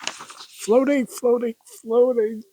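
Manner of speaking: high, softened voice holding in giggles; trying not to laugh. Real, not acted. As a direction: squeeze the words out past a laugh. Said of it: "I'm trying not to laugh".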